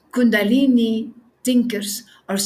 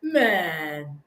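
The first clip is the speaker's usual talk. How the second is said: lower, softer blunt rebuke; blunt retort; 10 semitones lower, 5 dB quieter, slower than usual. Retold or imitated. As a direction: drop low and tell him straight. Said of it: "I can only say".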